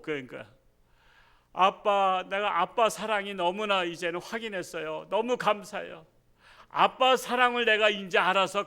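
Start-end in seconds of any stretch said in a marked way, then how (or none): 1.5-8.6 moved son. Retold or imitated. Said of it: "엉엉 우는 거야".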